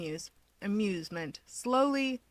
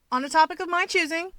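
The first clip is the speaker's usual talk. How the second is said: higher, louder voice for the cocky hero, gloating; Keigo, smug; 10 semitones higher, 5 dB louder than usual. A narrator's reading. Keigo telling Toya the joke's on him, smug and higher. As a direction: play the winged hero scoring a point, pleased with himself.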